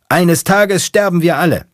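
very high, loud yell; shouting. Acted. Mechanic driving head-on at a car, screaming. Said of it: "der Mechaniker schreit".

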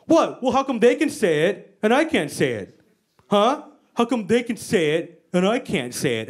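mock indignant dad. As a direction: protest like a put-out dad. Dad's indignant rant, acted.

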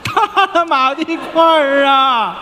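slow ringing call; hawker's cry. Acted. Shopkeeper opens the call, slow and ringing. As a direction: cry out the wares. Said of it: "call and response hawking".

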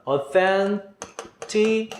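authenticity stretched very slowly; drawn-out modeling. Shown as a demonstration. Teacher slowly modeling a new word for students. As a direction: spell out authenticity syllable by syllable, slow. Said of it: "요건 어떻게 될까".

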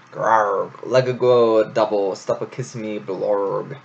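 lightly voiced struggling babe, mouth half smothered; squirming babe. Babe fights off the aunt's kisses, lightly garbled. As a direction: garble it like a wriggling infant.

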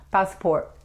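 "passport" with the final T stopped, not released; held final T. Shown as a demonstration. Teacher showing the American habit, "passport" with the last T held back. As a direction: cut "passport" off before the T sounds. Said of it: "como si se quedara aquí".

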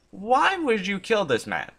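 disbelieving protest; incredulous question. Real, not acted. Questions the bot's threat.

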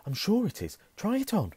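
high, loud eager urging. Acted. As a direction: push him to try it. Ron urges Harry eagerly.

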